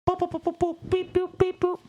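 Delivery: high-pitched robot beeping; robot beeps. Acted. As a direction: chirp like a little robot. Robot noises in fake trailer.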